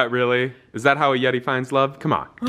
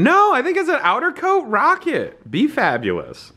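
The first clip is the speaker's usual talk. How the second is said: high, excited cheer; hyped encouragement; 9 semitones higher than usual. Real, not acted. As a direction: pump her up. Hyping friend's outfit.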